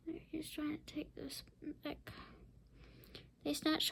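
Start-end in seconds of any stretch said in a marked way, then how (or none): 0.1-2.1 very soft unvoiced whisper. Real, not acted. Explaining the picture to the child, whispering. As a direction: confide it under your breath.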